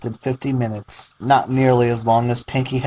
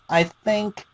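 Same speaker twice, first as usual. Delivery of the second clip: musing Pinkie; 8 semitones higher, 4 dB quieter than usual. Acted. Pinkie muses an idea.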